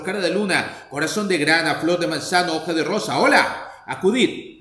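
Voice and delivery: a lordly call to absent servants; calling aloud. Acted. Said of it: "llamó en alta voz".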